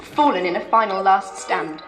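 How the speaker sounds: lightly voiced medieval lady; grieving widow narrating. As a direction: tell it as Edith, solemn. Edith narrates in character.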